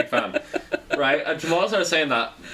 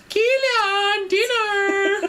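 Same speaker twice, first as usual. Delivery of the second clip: calling out to dinner; much slower than usual. Retold or imitated. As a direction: call him in for dinner.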